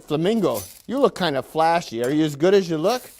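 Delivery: a lightly hammed-up, cheery manager lecturing his workers; mock factory boss. Factory manager greeting his willing workers, lightly hammed-up boss voice. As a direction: play the upbeat boss who patronises the staff. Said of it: "I might supply some of the dialogue".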